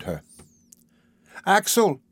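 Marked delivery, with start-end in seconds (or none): 1.5-2.0 high, surprised exclamation; surprised cry. A narrator's reading. Girl meeting Axel unexpectedly on the road, surprised cry. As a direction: cry the name in surprise, pitch falling away. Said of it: "she cried, surprised".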